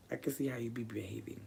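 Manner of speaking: whispered worry to the cat. Real, not acted. Speaking privately to her cat, a voiceless whisper. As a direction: hush it right down, barely voiced.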